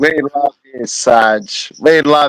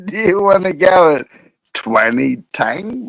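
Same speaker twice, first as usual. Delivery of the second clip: mimicking garbled speech; 4 semitones higher than usual. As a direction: stretch out TANG in mimicry. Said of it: "Was he saying twenty tang?".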